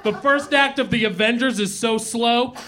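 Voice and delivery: put-on hammy old-school lounge comic voice; old borscht belt comic. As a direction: work the room like a cheesy nightclub comic. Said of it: "acerbic comedian".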